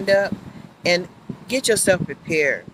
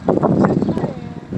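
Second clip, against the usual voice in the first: slow whispered plea; whispered coaxing; 4 semitones higher, much slower than usual. Real, not acted. Begging the tree in a slow whisper.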